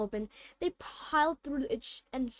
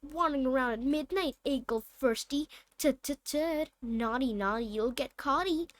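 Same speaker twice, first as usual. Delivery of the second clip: cackling. Acted. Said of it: "Peev cackled".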